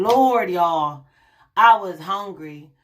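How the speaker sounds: loud, emphatic exclamation; excited. Real, not acted. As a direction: burst out with it. Exclaiming to viewers about hunger.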